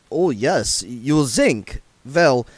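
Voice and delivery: fussy vampire snapping at a dwarf; snapped. Acted. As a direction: snap back about the laundry. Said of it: "snapped Otto".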